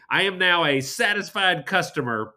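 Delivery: laughing. Real, not acted. Laughing while declaring himself.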